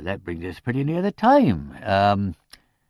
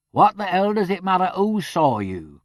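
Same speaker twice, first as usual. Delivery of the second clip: cried out; 10 semitones higher, 5 dB louder than usual. A narrator's reading. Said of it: "cried Kirk".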